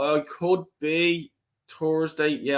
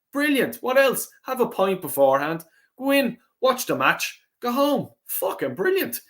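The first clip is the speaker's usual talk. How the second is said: excited; 8 semitones higher than usual. Real, not acted. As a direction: pitch jumps much higher, gushing with delight. Enthusing about live Irish football.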